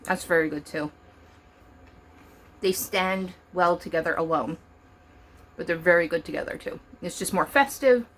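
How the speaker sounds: talking through a mouthful of pretzel; chewing while speaking; mouth full. Real, not acted. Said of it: "I don't mean to talk with my mouth full".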